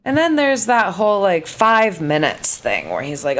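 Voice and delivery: usual speaking voice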